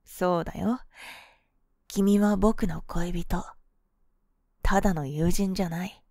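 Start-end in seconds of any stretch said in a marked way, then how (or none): 1.9-3.4 very slow, deliberate. Acted. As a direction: draw each word out. Slow emphatic suggestion.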